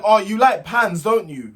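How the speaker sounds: slow, teasing imitation; lightly hammed-up taunt; mock sly question. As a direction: drag out her sly jab. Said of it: "She was like".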